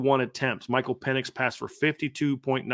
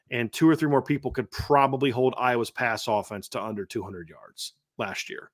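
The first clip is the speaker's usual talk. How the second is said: sarcastic. Acted. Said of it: "I'm being sar-, you know, s-, sarcastic".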